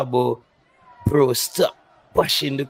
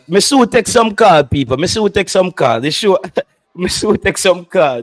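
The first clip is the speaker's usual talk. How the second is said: loud warning; 2 semitones higher, 4 dB louder than usual. Real, not acted. Threatening to take calls.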